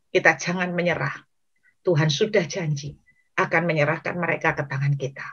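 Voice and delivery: subdued, measured rallying with pauses; steady, quiet urging, phrase by phrase; acted earnest encouragement. Preacher as David rallying his distressed men, quietly encouraging. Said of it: "Daud menyemangati enam ratus orang".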